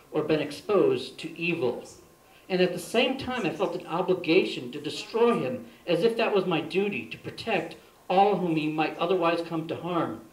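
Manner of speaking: emphatic, measured recital; poem reading. Real, not acted. Poet reads another poem about the same evil person, emphatic recital. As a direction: recite it earnestly, leaning on key words.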